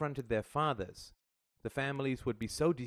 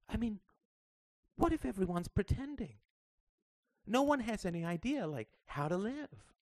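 put-on high, earnest little girl pouring her heart out; a child trying to put a big worry into words; young girl Sarah; 12 semitones higher than usual. A narrator's reading. Daughter confiding in her mother in the parked car, high and earnest.

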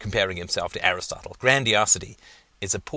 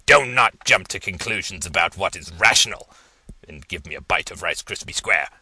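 guttural voice; 2 semitones lower, 5 dB louder than usual. Acted. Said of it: "due to the guttural nature of the voice".

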